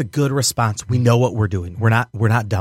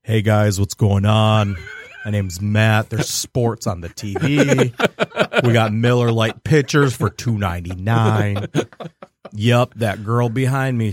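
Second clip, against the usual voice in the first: 2 lower, slow tough-guy server voice; 3 a lightly put-on macho bro greeting the table; 4 hint of a beefy sports-bar server; 1 big tough bar guy; 3 semitones lower, slower than usual. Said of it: "I'd be all big and tough".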